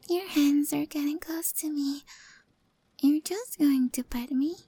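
intimate breathy roleplay whisper; hushed cat girl confiding close to the mic; ASMR whisper. Acted. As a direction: whisper shyly to your rescuer. Held whisper.

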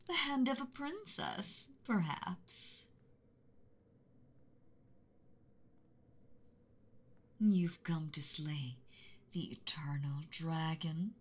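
menacing, hushed dragon threat, drawn out; mean angry dragon voice. Acted. Dragon to a trespassing boy, menacing hush. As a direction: loom over him like a beast in its lair. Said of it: "mean, angry dragon voice".

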